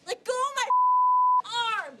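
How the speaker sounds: arm twisted back. Real, not acted. Arm twisted, shouting in pain.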